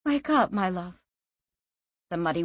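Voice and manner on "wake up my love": tender mother. A narrator's reading. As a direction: gently wake him, lovingly. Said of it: "his mother's voice in his ear".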